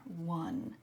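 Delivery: One said alone as the first syllable; isolated syllable. Shown as a demonstration. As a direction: pull out One from Wonder. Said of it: "start with that first syllable".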